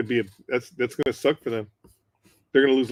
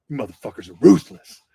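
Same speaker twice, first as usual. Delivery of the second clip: a loud, lower-pitched mock rebuke; scolding corporal; 4 semitones lower, 8 dB louder than usual. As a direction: voice the corporal, disgusted with them. Corporal scolds the razzing Marines.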